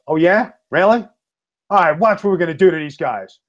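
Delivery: pumped to go after them, imitating; fired up. Nunzio ready to beat the Legion of Doom, fired up. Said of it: "He got fired up".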